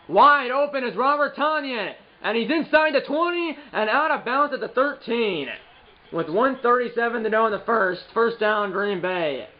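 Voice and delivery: high, energetic sportscaster call; play-by-play call. Acted. Own play-by-play of Madden game.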